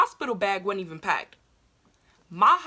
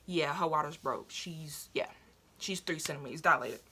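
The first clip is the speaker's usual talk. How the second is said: retold doctor; 4 semitones lower, 5 dB quieter than usual. Doctor answering mom, retold.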